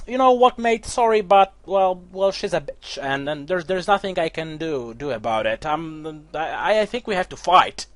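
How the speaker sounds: lightly hammed orc ally; orc companion. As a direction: play the apologetic orc mate, hammed up. Orc companion voiced in retelling.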